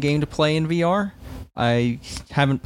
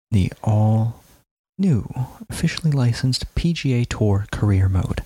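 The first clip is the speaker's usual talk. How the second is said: hushed golf commentary voice; golf announcer whisper. Pretend. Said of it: "read it like a golf announcer and like you're whispering".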